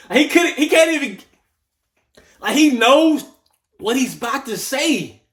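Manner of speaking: very high, loud voice breaking into laughter; real helpless laughter pushing the words up high; laughing disbelief. Real, not acted. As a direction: squeal it out while cracking up. Cracking up at the clip.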